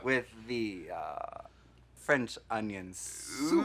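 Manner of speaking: slow, hesitant stab at a French accent; half-hearted French accent, very slow; attempted French accent. Shown as a demonstration. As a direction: draw it out in a faintly French accent. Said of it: "Let's hear your French accent".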